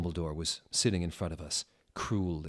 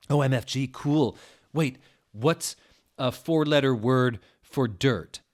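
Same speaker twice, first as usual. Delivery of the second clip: sexy voice; 5 semitones higher, 7 dB louder than usual. Acted. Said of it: "he asked in his sexa voice".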